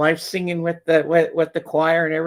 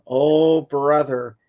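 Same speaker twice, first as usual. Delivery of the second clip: exasperated dad; 4 dB louder, much slower than usual. Retold or imitated. Dozing dad's retold dismissive reply.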